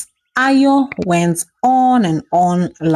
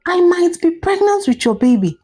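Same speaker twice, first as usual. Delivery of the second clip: higher-pitched angry pleading; angry outburst; 5 semitones higher than usual. Acted. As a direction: pour out her panic at Ayo, higher. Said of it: "Shade said angrily".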